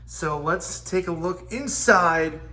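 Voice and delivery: recorded on a phone mic; lo-fi phone recording, room echo; phone audio. Real, not acted. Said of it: "apologies for the change in audio quality here, 'cause now I'm doing this on my phone".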